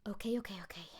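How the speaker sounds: breathy whispered okays to steady herself; breathed. A narrator's reading. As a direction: whisper it to calm yourself down. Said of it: "Marinette breathed".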